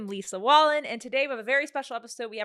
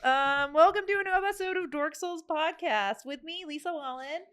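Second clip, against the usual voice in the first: creepy princess voice; 3 semitones higher than usual. Pretend. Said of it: "that's me".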